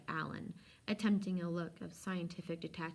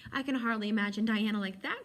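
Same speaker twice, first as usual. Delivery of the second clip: overwhelmed with joy; 4 semitones higher, 7 dB louder than usual. A narrator's reading. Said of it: "overwhelmed with joy".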